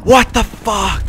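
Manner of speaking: high, drawn-out disbelief; stunned outcry. Real, not acted. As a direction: stretch it out high in real shock. Stunned reaction to game play.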